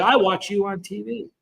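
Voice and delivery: put-on Spanish-accented English, slightly drawn out. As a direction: lightly imitate a Spanish-accented woman. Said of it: "with an accent, but she said".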